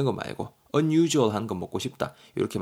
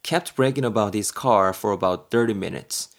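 slow example read; much slower than usual. Shown as a demonstration.

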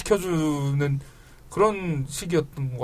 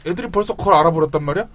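louder, stunned disbelief; surprised outburst; 7 dB louder than usual. Real, not acted. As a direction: blurt it out in shock. Host shocked kids know already.

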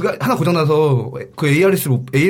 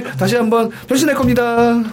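컨셉 연기; 9 semitones higher than usual. Pretend. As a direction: stretch it out like a staged announcement. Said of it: "이건 뭐야?". (높고 길게 끄는 컨셉 말투)

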